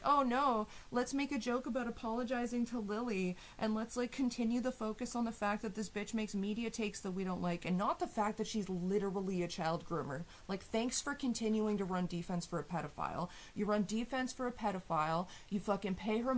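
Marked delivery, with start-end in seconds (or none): 0.0-10.2 mocking imitation. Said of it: "where it's like".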